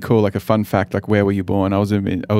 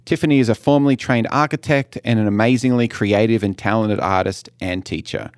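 measured, scripted guest introduction; podcast intro read. Acted. Host introduces the art teacher to listeners, scripted read. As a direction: read out the guest's bio as prepared.

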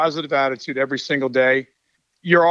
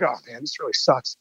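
glum; 5 semitones lower, 5 dB quieter than usual. Retold or imitated. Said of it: "with my head down and being like".

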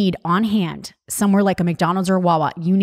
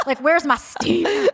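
mock macho whine; 10 semitones higher than usual. Mock macho construction worker.

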